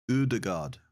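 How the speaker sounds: Ødegaard with an oo sound at the start; second try, ø closer to oo. Shown as a demonstration. Trying the Norwegian vowel again, oo-like ø. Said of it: "'Cause here we'd say Odegaard".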